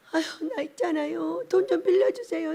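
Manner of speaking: soft pleading put-on voice; mock timid plea; whiny borrower. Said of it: "어떤 사람이 와가지고".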